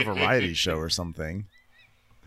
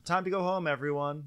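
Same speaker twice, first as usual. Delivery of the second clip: mock host voice; 6 semitones higher than usual. Mocking host sending everyone home.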